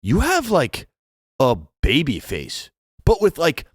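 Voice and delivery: high, chirpy imitation of the flight attendant; man mimicking a flight attendant, high and sing-song; mock flight attendant.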